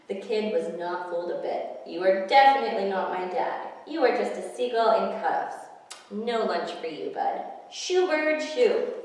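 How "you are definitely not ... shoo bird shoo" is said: put-on indignant kid. Kid rejecting the disguise.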